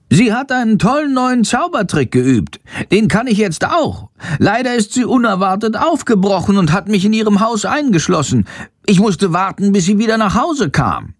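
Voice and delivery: high, squeaky little bat voice. A narrator's reading. Shandor the bat speaks. (hohe Fledermausstimme, aufgeregt erzählend)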